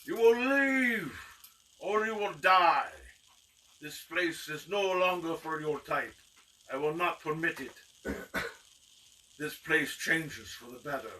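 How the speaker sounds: slow, theatrical proclamation, opening high and loud; commanding magician. Acted. Magician on the roof banishing the gang, imperious proclamation. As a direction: pronounce a grand ultimatum, easing from a shout.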